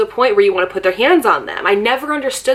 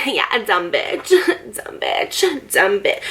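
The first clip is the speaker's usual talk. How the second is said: mocking taunt; slower than usual. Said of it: "that's literally how she was talking".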